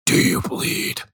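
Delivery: breathy whispered seduction; mock tender whisper. Retelling tender seductive line.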